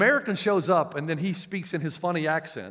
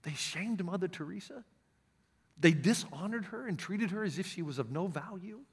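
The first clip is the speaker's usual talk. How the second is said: hushed horror at the news; shocked translator; 9 dB quieter than usual. Retold or imitated. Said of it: "looked at me with shock".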